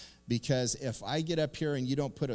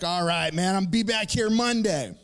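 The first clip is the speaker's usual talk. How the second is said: resigned promise; 7 semitones higher, 5 dB louder than usual. Retold or imitated. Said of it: "I was like".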